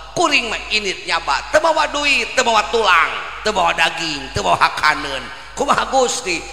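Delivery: high and loud, each "teu mawa" falling hard; boastful dog voice. Acted. The dog lecturing the sheikh on trust, high and proud. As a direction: proudly list what you never carry.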